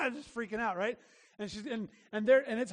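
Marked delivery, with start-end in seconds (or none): 0.0-0.1 mock toddler roar. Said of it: "this little child is like".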